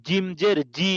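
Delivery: "জি" with a hard, firmly pressed j. Shown as a demonstration. Teacher drilling students on the letter jim, hard j in "জি". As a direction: make the j in "জি" firm. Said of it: "দেখেন শক্ত করতেছি".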